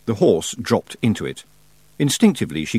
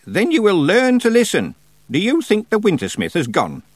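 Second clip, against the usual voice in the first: put-on stern old witch; 11 semitones higher, 4 dB louder than usual. A narrator's reading. Miss Treason lectures.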